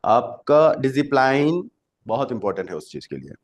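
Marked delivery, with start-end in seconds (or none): 0.7-1.7 "डिसिप्लिन" read letter by letter, ending like "plain"; mispronounced discipline. Shown as a demonstration. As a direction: say "डिसिप्लिन" wrongly as "dizi-plain". Deliberate misreading as a pronunciation joke.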